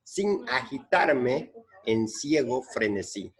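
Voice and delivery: slow, measured reading of a line of poetry; verse recitation. Acted. Teacher quoting a verse to count its syllables, slow recitation. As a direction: recite the verse slowly, phrase by phrase. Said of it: "Entonces dice el verso".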